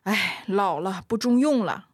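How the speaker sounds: 轻叹一声，略带不快地服老; 稍微演一点领导输棋后的阴郁; 阴沉的领导. Acted. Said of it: "领导脸色阴沉地说". (略带阴沉地自嘲)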